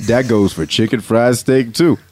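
lightly voiced ad announcer; low-key commercial read. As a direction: pitch the food in an easygoing voice. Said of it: "announcer voice is this".

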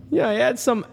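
a lightly voiced cabbie complaining about a tip; cab driver. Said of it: "Already talking like a cab driver".

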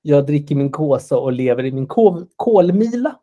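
homely Norrland dialect, unhurried. Acted. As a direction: play the little Norrlander at heart. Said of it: "innerst inne en liten norrlänning".

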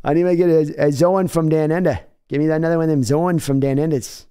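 hammed-up Aussie accent on the phrase; mock Australian. Joking with chat in a mock Aussie accent. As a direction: play at an Australian accent, lightly. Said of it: "sounds like an Australian term".

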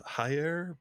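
Jair said "HIGH-air", with an H; Spanish-style J. Shown as a demonstration. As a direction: pronounce the J of Jair like an English H. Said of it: "I've always heard it pronounced".

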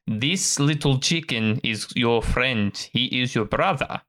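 slow, measured elf mentor; a hint of a patient elf master; lightly voiced elf. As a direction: gently instruct a pup, taking your time. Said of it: "the elf turns and says".

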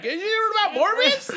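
high giggling question; laughing. Retold or imitated. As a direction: ask it through giggles. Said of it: "be like".

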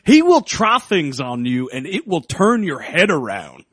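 put-on Maine accent, earnest warning; hammed-up New England accent. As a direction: warn them in a mock Maine accent. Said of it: "I don't know why this is the accent".

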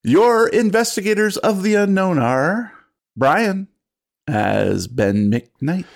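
theatrical announcer voice; podcast host intro. Acted. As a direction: play the dramatic keeper of lore. Host's podcast opening.

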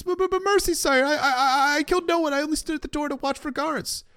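very high, stammering squeal of a captive; panicky, stuttering high-pitched mock plea; terrified pleading. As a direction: beg for your life in a hammed-up falsetto. Captive on knees pleading for mercy.

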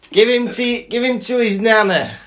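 high put-on grown-up voice; imitated bossy relative. Relative passing the child to nana, high imitated voice. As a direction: pitch it up, as if directing the room.

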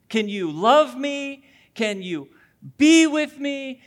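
needy dog voice. Retold or imitated. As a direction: beg like a clingy dog wanting love. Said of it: "They just want you to be around them".

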